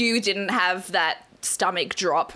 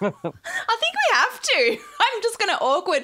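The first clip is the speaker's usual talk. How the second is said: awkward laughter through words; nervous laugh; 11 semitones higher than usual. Real, not acted. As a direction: laugh nervously while talking. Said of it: "I'm just awkward laughing my way through it".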